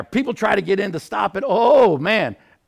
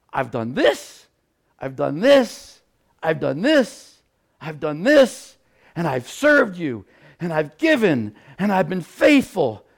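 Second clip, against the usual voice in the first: emphatic list, each item landing on the last word; tally up your grievances to God; aggrieved complaint. Acted. Preacher voicing a complaint to God, aggrieved.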